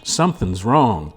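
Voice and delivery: put-on wife insisting they must find the baby; insistent wife. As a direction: push hard, she won't be refused.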